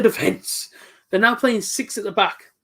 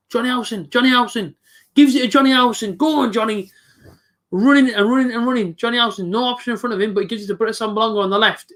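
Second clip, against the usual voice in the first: higher-pitched, urgent match commentary; live play-by-play; 4 semitones higher than usual. Real, not acted. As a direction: urge the player on as he runs with the ball.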